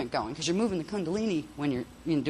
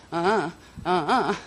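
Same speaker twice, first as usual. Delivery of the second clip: three-syllable tones; 5 dB louder than usual. Shown as a demonstration. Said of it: "that's three".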